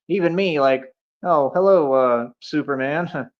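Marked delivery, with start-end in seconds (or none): 1.2-3.3 mildly deferential greeting, slowing on the name; a touch of cautious politeness, lower at the end; respectful, tentative. Acted. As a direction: greet a powerful hero carefully. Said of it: "I'll be real respectful".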